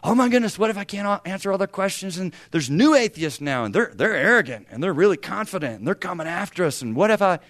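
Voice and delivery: spiral into fake alarm; mock panic. Young believer frets about atheists, mock panicked. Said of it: "don't get all worked up about".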